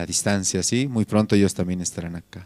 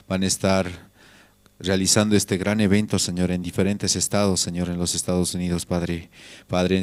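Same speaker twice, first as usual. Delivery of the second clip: steady pleading prayer cadence, Señor after each phrase; fervent prayer. Acted. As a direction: pray aloud for the brothers, earnestly. Leads a radio prayer.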